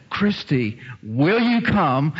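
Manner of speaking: drawn out, slow and inviting; slow invitation. Retold or imitated. Preacher inviting Christy, slow and inviting. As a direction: stretch each word as an altar call. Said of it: "the moment I said".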